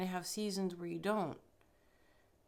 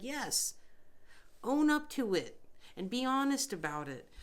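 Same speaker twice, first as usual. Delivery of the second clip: louder, sharper retold scolding; stern spirit command; 5 semitones higher, 4 dB louder than usual. Spirit ordering her to own up, loud and stern.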